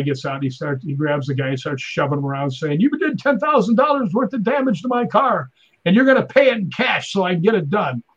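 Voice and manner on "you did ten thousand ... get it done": mock-angry bully voice, pitched higher; angry demand. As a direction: play the big nasty guy shoving for cash. Angry driver demanding cash.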